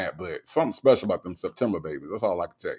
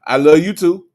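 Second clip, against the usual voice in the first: Granny the Great; 3 semitones higher, 8 dB louder than usual. Retold or imitated. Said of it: "that's how he say it".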